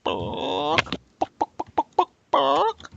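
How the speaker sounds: high squawked bawk with popping clucks between; chicken clucking. Acted. Chicken at the library counter demanding books from the librarian, squawking. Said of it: "and he says".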